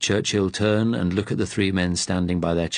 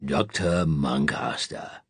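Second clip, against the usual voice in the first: even; 4 semitones lower, slower than usual. A narrator's reading. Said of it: "Churchill said evenly".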